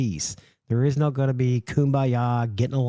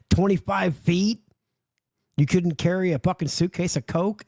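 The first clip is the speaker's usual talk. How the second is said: incredulous; 6 semitones higher than usual. Real, not acted. Incredulous at short carry.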